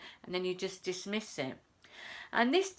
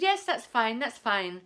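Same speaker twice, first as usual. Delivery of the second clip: imitated brusque phone reply; abrupt; 4 dB louder than usual. B and B owner answering a guest, mock abrupt. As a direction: cut the caller off, starting louder. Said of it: "he was quite abrupt".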